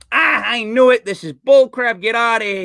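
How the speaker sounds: mildly worked-up joke character; exasperated outburst. Acted. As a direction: act out a fed-up bank clerk.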